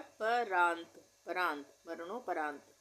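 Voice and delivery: slowly, parant spelled out part by part; slow syllable split. Shown as a demonstration. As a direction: say उसके बाद परांत syllable by syllable, drawn out. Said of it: "मरणो easy है".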